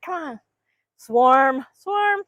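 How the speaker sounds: high eager hen voices rising to loud; voicing the hens. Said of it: "They're like".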